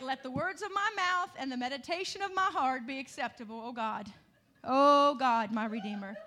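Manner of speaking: a pleading prayer, with a sudden loud cry of oh God; heartfelt prayer. Shown as a demonstration. Preacher praying to guard his words, pleading with a sudden cry. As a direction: pray it as a plea to hold your tongue. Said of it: "when I need to just zip my lips".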